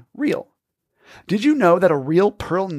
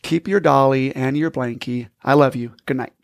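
a touch of gentle fatherly calm, a little lower; warmly; 3 semitones lower than usual. Acted. Father reassures his daughter while tucking her in, in a mildly warm, gentle voice. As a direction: soften it like a dad at bedtime. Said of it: "Her dad smiles warmly".

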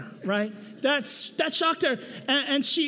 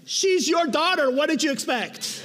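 wry wife quote; 3 semitones higher than usual. Retold or imitated. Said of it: "a nice way of her saying".

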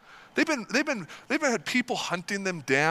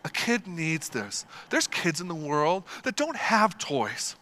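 softer, slow, gently preachy dad; good Christian dad; 3 semitones lower, 4 dB quieter than usual. Retold or imitated. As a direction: lecture kindly like a patient father. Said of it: "good Christian dad".

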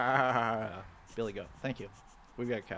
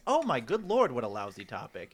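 mock dismay. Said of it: "my initial reaction is".

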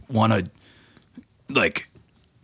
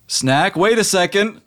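higher, urgent genie voice; a genie calling out a warning; 11 semitones higher than usual. Acted. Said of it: "the last thing you hear is Genie going".

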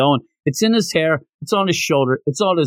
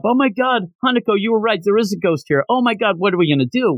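higher-pitched, mildly panicked babble; mock freak-out; 6 semitones higher, faster than usual. Taro tells Hanako there is a ghost, freaking out. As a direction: hurry it along in pretend panic. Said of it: "everybody's freaking out".

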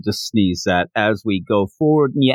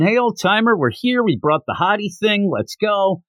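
mock yell; 6 semitones higher than usual. Goku calls the old master at his door, mock yelling. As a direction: imitate a kid hollering for someone. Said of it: "Goku's yelling".

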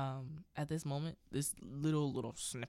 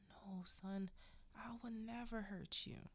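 quiet, higher retold father's reassurance; soft reassurance; 5 semitones higher, 7 dB quieter than usual. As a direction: gently act out a dad calming his son. Father reassuring his son, retold.

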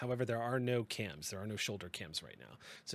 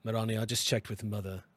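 lightly voiced operator; 3 dB louder than usual. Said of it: "Baker's voice".

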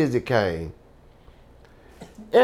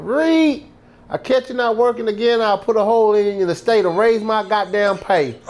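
guard's threat; 6 semitones higher than usual. Retold or imitated. Prison guard threatens on horseback.

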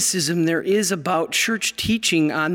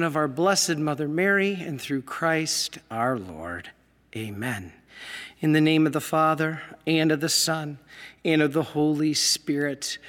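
prayer. Acted. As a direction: lead the congregation in prayer. Leads opening prayer.

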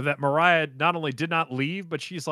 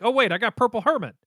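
higher-pitched sudden idea; mock realization; 7 semitones higher, 4 dB louder than usual. Joseph remembering his power while trapped, mock realization. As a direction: act out a hopeful discovery.

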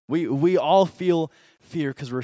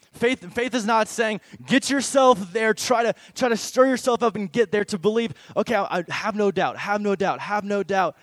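mock self-pushing; 4 semitones higher, 5 dB louder than usual. Mocking forced believing, loud.

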